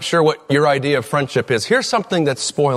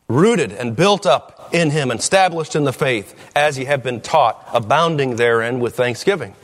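scripture reading. Acted. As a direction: read the verses with weight. Reads scripture aloud.

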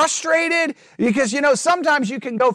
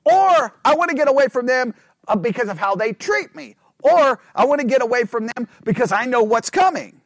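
fed-up prophet; 4 dB louder than usual. Retold or imitated. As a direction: vent like a prophet sick of his people. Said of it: "Others are like".

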